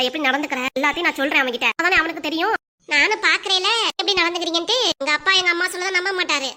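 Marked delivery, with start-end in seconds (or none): 2.9-6.5 defiant threat. Acted. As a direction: throw the challenge back at her.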